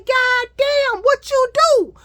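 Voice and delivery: very high, loud astonished driver; shocked driver. Retold or imitated. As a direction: blurt it out in disbelief. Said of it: "He said".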